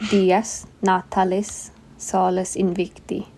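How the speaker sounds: Dies natalis solis invicti, slow and word by word; careful Latin pronunciation. Shown as a demonstration. Co-host correcting her friend's Latin, slow careful accent. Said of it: "Without the accent".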